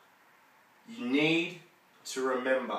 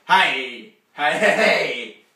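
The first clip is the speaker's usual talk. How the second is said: tempting Satan; 5 dB louder, slower than usual. Acted. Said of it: "you'll hear Satan saying".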